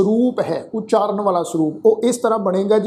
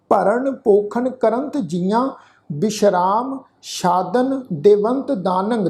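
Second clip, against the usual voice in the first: slow, measured chanting of the verse; scripture recitation; slower than usual. Shown as a demonstration. Teacher leading the sangat through the shlok, slow recitation. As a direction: recite each syllable slowly for the congregation.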